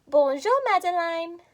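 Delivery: whispered "Bonjour, Madeline". Shown as a demonstration. Teacher whispering the phrase for kids to echo. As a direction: breathe it out with no voice. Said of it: "Repeat after me".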